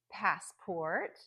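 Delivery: passport with strong PASS and clear port; primary stress on pass in passport, secondary on port; careful list-reading of passport; compound noun stress. Shown as a demonstration. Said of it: "extra stress on the first word".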